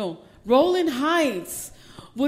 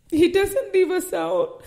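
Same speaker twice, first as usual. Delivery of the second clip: higher and louder, proclaiming it; emphatic proclamation; 6 semitones higher, 3 dB louder than usual. Acted. Pastor declaring God's faithfulness to the church, emphatic proclamation. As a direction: lift it up and declare it. Repeated line, first take.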